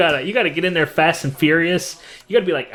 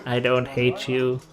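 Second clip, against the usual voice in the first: turret voice; 2 semitones lower, 5 dB quieter, slower than usual. Retold or imitated. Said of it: "you can now say".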